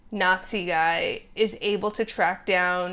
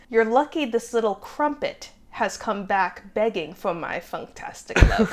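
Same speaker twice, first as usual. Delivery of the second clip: mock cockney quote. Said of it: "I believe the full quote is".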